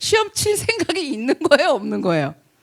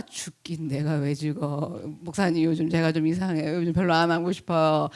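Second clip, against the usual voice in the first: mock sulky complaint; 9 semitones lower, 5 dB quieter than usual. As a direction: whine like a burnt-out believer. Same believer now sulking. (시큰둥한 불평 흉내)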